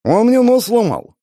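high, slow, aggrieved wail; a hurt man's high slow outcry; loud complaint. A narrator's reading. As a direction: protest loudly about the broken nose. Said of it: "пожаловался я".

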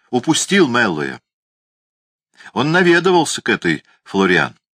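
mumbling through a mouthful; mouth full of hot potato. A narrator's reading. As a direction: talk round a hot potato. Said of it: "рот его был набит горячей картошкой". (как с картошкой во рту)

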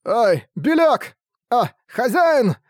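high, slow anguished calls; desperate cry. Acted. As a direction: cry out in panic for the dog. Character cries out for his dog.

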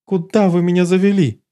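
high, dazed cat voice; lightly voiced haughty cat; detached question. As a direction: ask as if waking in a strange place. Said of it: "спросила она, наконец, отрешённо".

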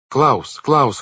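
high, loud call of a name. A narrator's reading. Violet calling her brother as she hurries in, crying out. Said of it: "крикнула она".

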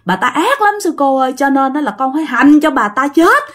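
put-on a touch of aggrieved child; child spirit's voice. Spirit vowing to torment the woman, mildly childlike complaint. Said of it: "giọng giống như là một đứa con nít".

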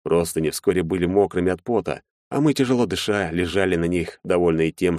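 ordinary delivery

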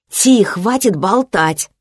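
high, slow, exasperated moan; groaning.

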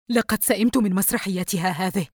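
mildly scowling mother; a touch of sullen displeasure. Acted. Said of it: "الأم بتجهم". (بتجهم خفيف)

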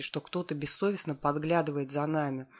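ordinary delivery

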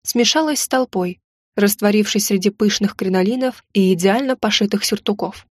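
ordinary delivery

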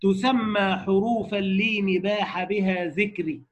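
slow chanted verse recitation; slow intoned poem; recited verse. Shown as a demonstration. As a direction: draw each line out like a memorized poem. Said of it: "قال".

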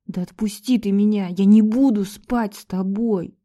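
ordinary delivery

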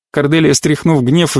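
plain reading voice

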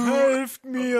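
desperate cry. Acted. Poisoned Ron calls.

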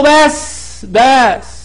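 high, abrupt "enough"; cutting someone off. Retold or imitated. Teacher halting a weak specialist's answer, cutting him off.

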